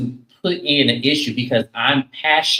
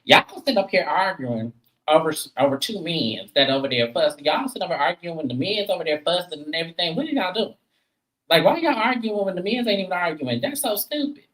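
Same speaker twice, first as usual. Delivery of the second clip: higher-pitched mock scolding of arguing women; exasperated retelling, climbing higher toward the end; piping up to scold; 5 semitones higher than usual. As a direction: imitate someone butting in to tell them off. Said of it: "Miss Wanda pipes up".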